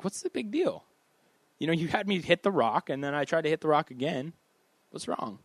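a hint of an indignant Moses; puzzled protest.

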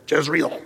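Jezreel with a hard English J; English pronunciation. Shown as a demonstration. Pastor spelling the name as we do, English pronunciation. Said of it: "That's the way we do".

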